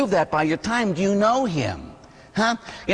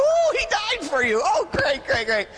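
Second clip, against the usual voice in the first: much higher, gushing sarcastic excitement; mock excited; 13 semitones higher than usual. Priest pretending excitement at a teen's answer, high and sarcastic. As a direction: gush falsely, fading to great, great. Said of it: "and I get all excited".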